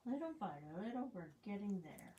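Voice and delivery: talking around a paintbrush; words round a brush held in teeth; brush in mouth. Real, not acted. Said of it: "What do you got that brush in your mouth?".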